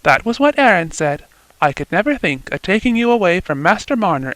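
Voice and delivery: lightly voiced young girl, eager and bright-pitched; a light lift for a young daughter telling her news, a bit quick. Eppie voiced by narrator.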